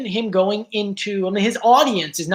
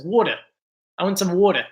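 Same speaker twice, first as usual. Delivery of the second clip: South Jersey water; faster than usual. Shown as a demonstration. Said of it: "South Jersey says".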